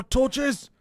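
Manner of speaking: sudden high excited call; delighted find; aha discovery. Real, not acted. Spots torches in village.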